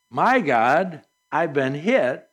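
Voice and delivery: weighty plea to God, pause after "God", falling on "hit"; addressing God. Shown as a demonstration. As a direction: pray it, with "My God" set apart and "hit" dropping. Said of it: "as an exclamation point or a".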